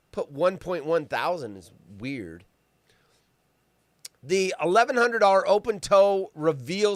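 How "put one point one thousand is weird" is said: soft unvoiced whisper; whispered aside. Real, not acted. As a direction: mutter it under the breath.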